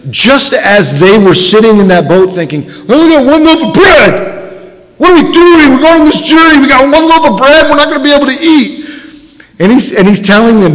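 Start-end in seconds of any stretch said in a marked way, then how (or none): 2.9-8.8 higher, panicky worried voice; higher, worried disciples' voice; fretting disciples. Retold or imitated. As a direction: fret like anxious men in a boat. Disciples fret over one loaf.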